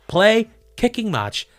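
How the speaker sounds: slow, high, loud spelled-out command; funny smart-speaker voice. Pretend. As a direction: spell the show name out for the gadget. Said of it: "that funny accent that you do when you talk to it".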